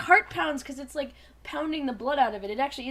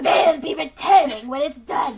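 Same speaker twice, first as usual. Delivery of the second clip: slow drawl, louder; drawled Dinobot line; 10 dB louder than usual. Acted. Dinobot drawls his report to Rat Trap, slow. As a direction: stretch the words out lazily. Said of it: "It's drawled".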